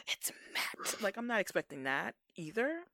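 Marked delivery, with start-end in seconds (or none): 0.1-1.0 whisper. Retold or imitated. Mock dramatic reveal.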